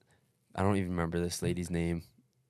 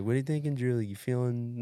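mom; 5 semitones higher than usual. Retold or imitated. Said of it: "My mom's like".

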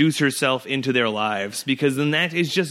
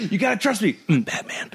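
laughing Batman line; 6 semitones higher than usual. Retold or imitated. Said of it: "And I'm gonna go".

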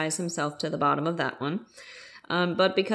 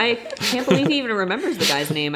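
normal talking voice

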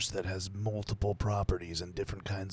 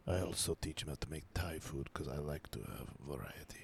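whispering; 6 semitones lower, 13 dB quieter, faster than usual. Pretend. Mock deadpan bit, whispered.

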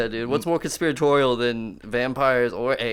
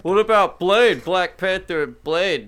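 whiny fan voice; 7 semitones higher, 6 dB louder than usual. Retold or imitated. Mocking what everyone says.

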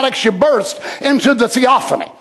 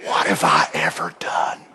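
much lower, soft and humble; humbly; 9 dB quieter than usual. Acted. A gifted man humbly questioning himself, hushed. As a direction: drop to a humble near-whisper. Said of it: "humbly and truthfully".

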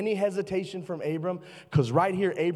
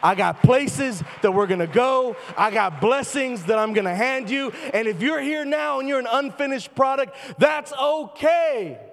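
preaching shout; 5 semitones higher than usual. Real, not acted. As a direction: shout it to the back rows. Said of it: "I just screamed".

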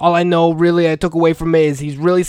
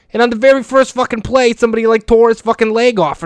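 rising, louder glee as he tells it; thrilled, higher and louder; excited; 5 semitones higher, 4 dB louder than usual. Real, not acted. Recalling the XFL's first play for listeners, gleefully excited.

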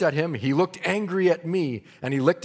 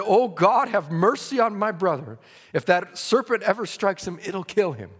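pleading cry; 5 semitones higher, 4 dB louder than usual. Retold or imitated. Preacher retells crying out to God.

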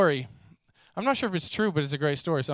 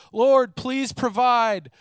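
pleading prayer; 5 semitones higher than usual. Retold or imitated. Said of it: "consistently cry out to the Lord".

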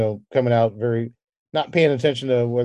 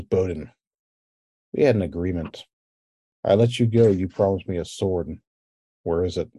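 ogre voice; 5 semitones lower than usual. Acted. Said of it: "deep, gravelly voice".

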